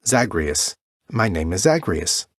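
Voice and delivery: ZAGREUS said slowly and clearly, every syllable laid out; patient teacher drilling the name "Zagreus". Shown as a demonstration. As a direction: spell out "Zagreus" for a learner. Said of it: "Can you say that to Tiffany?".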